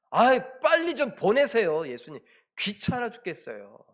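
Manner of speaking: acted-out annoyance, bursting out high and loud, then dropping; dismissive disciples. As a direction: imitate someone shooing away a nuisance. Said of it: "제자들이 그 여인을 하찮게 여겼어요".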